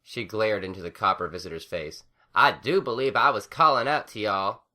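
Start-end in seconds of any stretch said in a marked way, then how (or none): 2.3-4.6 annoyed. A narrator's reading. Annoyed Applejack.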